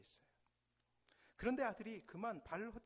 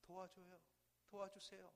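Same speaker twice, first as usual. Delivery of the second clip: echo from afar; 2 semitones higher, 5 dB quieter than usual. Acted. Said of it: "한 목소리가 들려".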